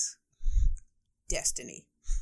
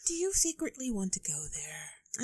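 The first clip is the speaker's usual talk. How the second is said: conspiratorial whisper. Real, not acted. Teasing secret question.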